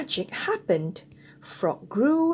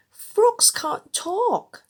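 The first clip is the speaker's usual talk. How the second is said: high, slow, disbelieving scoff; a princess mocking a talking frog; 12 semitones higher, 5 dB louder, much slower than usual. A narrator's reading. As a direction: scoff at the very idea, drawn out. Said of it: "said the princess".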